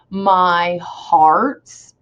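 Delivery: "my hearts" with the sound lifting into "hearts"; rising scansion. Shown as a demonstration. Teacher showing the next rise, metrical lift on "my hearts". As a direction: let "my hearts" rise in two measured beats. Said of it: "The sound kinda rises in the next word".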